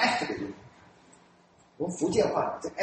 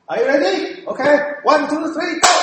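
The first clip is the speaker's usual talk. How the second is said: mildly higher, louder teacher count-in; German teacher; 8 semitones higher, 7 dB louder than usual. Retold or imitated. German teacher starting the class pronunciation drill, brisk count-in. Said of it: "老师就会像".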